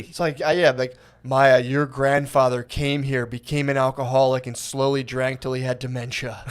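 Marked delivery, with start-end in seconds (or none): 1.2-6.4 mock heritage speech. Parodying a parent's letter to Maya, mildly solemn storyteller. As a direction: hand down grim family history as proud wisdom. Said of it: "if my grandfather had, like, done his racial takes".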